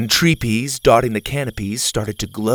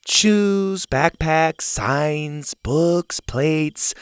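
counting off a list; 4 semitones higher, much slower than usual. Acted. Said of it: "started counting off on her fingers".

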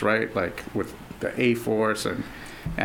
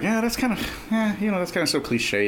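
skeptical scoff; 9 semitones higher than usual. Retold or imitated. Retold skeptical first reaction.

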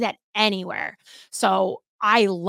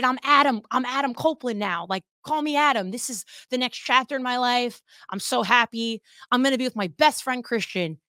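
bright, eager mock gush, pitched up; excited; 4 semitones higher than usual. Edge gushing about his best friend on debut, excited mock voice. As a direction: play a giddy newcomer thrilled to be back. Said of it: "he's like all excited".

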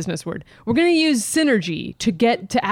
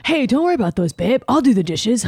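lightly mocking boyfriend impression, slightly raised; imitating boyfriend; 3 semitones higher than usual. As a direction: mimic your easygoing boyfriend brushing it off. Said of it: "This is you all the time".

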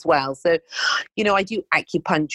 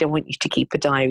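rattled off fast, a little impatient; fast impatient repeat; 2 semitones lower, much faster than usual. Retold or imitated. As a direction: repeat it quickly, as if he should have heard the first time.

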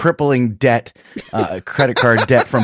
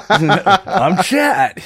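laughing through it; 8 semitones higher, 3 dB louder than usual. Retold or imitated. Co-host jokes along, laughing.

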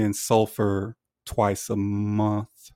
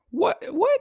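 sharp high disbelieving what; sudden shocked double question; surprised. Real, not acted. Stunned by the clippings question.

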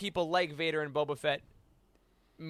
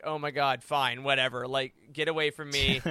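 weary middle manager; 4 semitones lower than usual. Retold or imitated. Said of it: "middle management guy that's just like".

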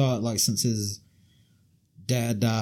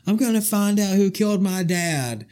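Stephanie McMahon impression; 8 semitones higher, 5 dB louder than usual. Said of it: "she's like".

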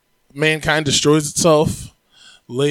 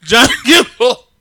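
mock Austrian accent; 7 semitones higher, 10 dB louder, slower than usual. Repeating the Arnold impression.

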